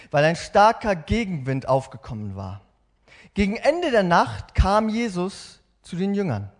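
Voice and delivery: slow, expressive storytelling read; dramatic Bible reading. Acted. Preacher reading Matthew to the congregation with drama. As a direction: read the scripture with feeling and action. Reads Bible passage with feeling.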